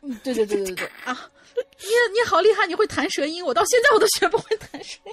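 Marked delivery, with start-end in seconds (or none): 1.6-5.1 excited. Real, not acted. Amazed by friend's rolled r.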